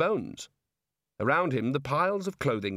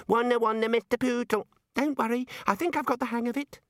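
put-on high-pitched little-kid voice; squeaky small child; 11 semitones higher than usual. A narrator's reading. Child-sized wizard reassures Ponder, high squeaky voice. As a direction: babble high like a tot. Child self, then getting control.

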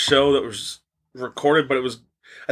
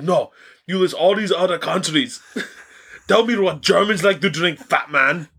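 laughing through the quote; 6 semitones higher than usual. Retold or imitated. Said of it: "He's like".

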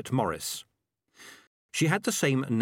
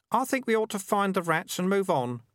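put-on higher, lighter young boy voice; boy's voice; 10 semitones higher than usual. A narrator's reading. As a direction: voice the kid a touch higher. Kid character voice.

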